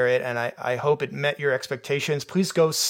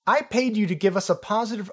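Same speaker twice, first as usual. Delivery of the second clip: higher, haughty read; snooty director voice; 8 semitones higher than usual. Acted. Reading the director's slip about paying for a positive review.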